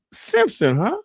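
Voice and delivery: high, loud, slow mocking sergeant voice; mock drill sergeant. Drill sergeant teasing a recruit, high and loud. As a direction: draw out the nickname with a teasing grin. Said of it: "he's like".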